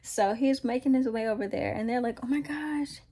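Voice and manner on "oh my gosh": higher-pitched mock alarm; scared disciples. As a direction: act out mildly panicked onlookers spotting a ghost. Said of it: "Like, they're scared".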